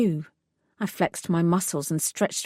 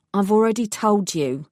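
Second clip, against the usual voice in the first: firm, impatient refusal; gruff woman. Acted. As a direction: shut him down, gruff. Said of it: "a gruff female voice".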